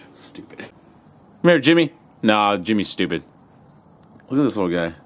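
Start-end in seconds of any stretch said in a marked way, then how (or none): 0.6-1.9 high, loud puppy call; calling the dog by a new name. Real, not acted. Trying out a name on the new puppy, high call.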